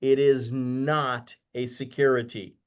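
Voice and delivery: slow, with a long held NOT; emphatic repetition. Real, not acted. Speaker repeats a legal point for investors, slow and emphatic. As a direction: stretch "not" to drive the point home. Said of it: "let me say that again".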